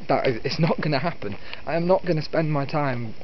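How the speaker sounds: usual speaking voice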